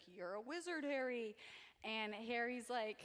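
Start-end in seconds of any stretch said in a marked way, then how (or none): 0.1-1.3 a lightly voiced Hagrid, softer; mild giant voice, barely put on; Hagrid impression. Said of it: "That was my Hagrid impression".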